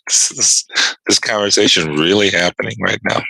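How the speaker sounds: can't believe what he's hearing; incredulous aside. Retold or imitated. Retelling the post office clerk exchange, stunned disbelief.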